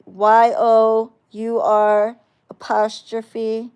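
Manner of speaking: slow, loud letter-by-letter spelling of "Y O U R apostrophe", every letter separated; spelled out letter by letter. Shown as a demonstration. Mocking a commenter's spelling, spelling their version out slowly. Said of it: "not your".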